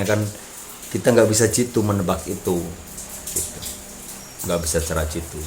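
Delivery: talking around a cigarette; cigarette in mouth. Real, not acted. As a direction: speak with a cigarette between the lips. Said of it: "saya sambil ngerokok ya, maaf". (sambil merokok, rokok di mulut)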